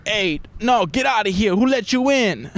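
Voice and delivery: indignant neighbor impression, climbing in pitch; imitating an indignant guy. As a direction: act out a man refusing entry. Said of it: "I can hear this guy".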